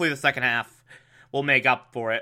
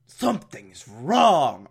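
Batman voice; slower than usual. Retold or imitated. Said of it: "Batman's like".

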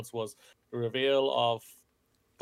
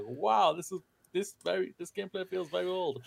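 unimpressed; 6 semitones higher than usual. Retold or imitated. Player recalling a sequel he didn't enjoy, unimpressed. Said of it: "I didn't enjoy it".

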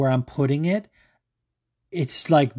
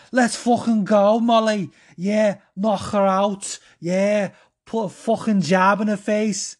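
Scouse hype shouting; 7 semitones higher, slower than usual. Pretend. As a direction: bellow like a Liverpool cornerman in a Scouse accent. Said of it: "just do my best Scouse dialect".

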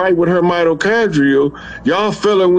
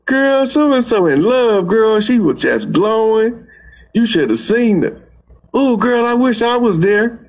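gossiping sister; 4 semitones higher than usual. Retold or imitated. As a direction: spread the sweet news to your sister.

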